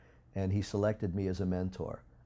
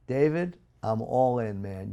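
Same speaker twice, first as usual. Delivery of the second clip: enthusiastic cheer; 3 semitones higher, 4 dB louder than usual. Retold or imitated. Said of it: "I high-five you and go".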